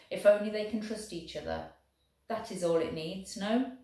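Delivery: lightly voiced German officer, careful and friendly; a hint of a polite German soldier. German proposing the coin toss to the Welshman, lightly voiced.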